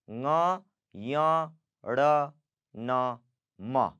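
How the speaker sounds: ng, yang, ण, न, म through nose and mouth; ng, yang, ण, न, म stepping down in pitch; nasal consonants. Shown as a demonstration. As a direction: recite ng, yang, ण, न, म as separate nasals. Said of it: "you have to pronounce it from".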